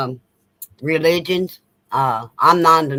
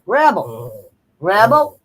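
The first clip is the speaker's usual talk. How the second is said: anxious high calls to the dog; worried calls of the dog's name; calling the dog; 4 semitones higher, slower than usual. Real, not acted. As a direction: call out to a dog that is not moving. Calling to her dog in alarm.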